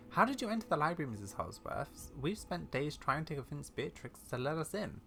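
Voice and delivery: lightly acted, puzzled questioning; young adventurer character. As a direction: ask the old lady with eager curiosity.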